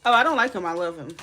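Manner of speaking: usual speaking voice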